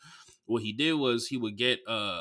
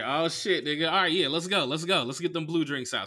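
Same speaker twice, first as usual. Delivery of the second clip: put-on rallying an old friend for a round; hyped friend; 5 semitones higher than usual. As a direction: imitate a buddy getting hyped. Friend eagerly agrees to drinks.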